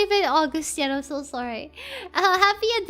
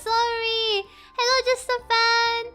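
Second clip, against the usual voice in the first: high, loud rushed greetings; excited apology; 6 semitones higher, 5 dB louder than usual. Real, not acted. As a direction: gush hellos at chat.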